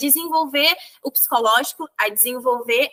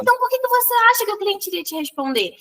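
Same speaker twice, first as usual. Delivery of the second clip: pointed rhetorical question; 7 semitones higher than usual. Retold or imitated.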